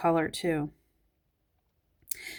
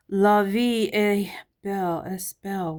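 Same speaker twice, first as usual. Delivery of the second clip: put-on French accent; 2 semitones higher, 4 dB louder than usual. Reading the perfume name, half-mocking French accent. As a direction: roll out "La vie est belle" like a Parisian ad.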